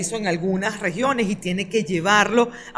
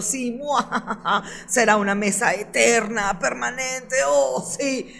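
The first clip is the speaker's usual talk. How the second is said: sneering panto villain. Retold or imitated. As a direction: cackle like a cartoon baddie. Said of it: "Y Nicolás diciendo".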